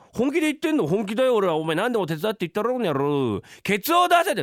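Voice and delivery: high-pitched, worked-up bellow; loud demand. Acted. Husband ordering reluctant wife to help, loud demand. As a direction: raise your voice and insist. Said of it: "大きな声でやや言うんじゃないよ".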